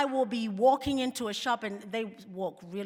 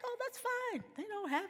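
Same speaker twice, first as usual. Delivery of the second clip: wry aside; 5 semitones higher, 4 dB quieter than usual. Retold or imitated. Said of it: "I'm like".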